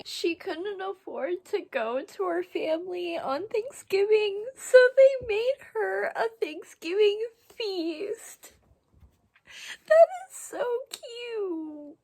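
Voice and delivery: high, crying over something sweet; weepy, high-pitched fangirl sobbing; tearful gushing. Real, not acted.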